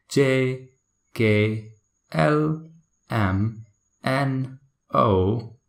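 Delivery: letters "J" to "Z" recited one at a time, each with a dipping tone; British alphabet recital. Shown as a demonstration. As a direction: dictate each letter from "J" to "Z" with pauses between. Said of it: "there's kind of I tone in every letter they pronounce".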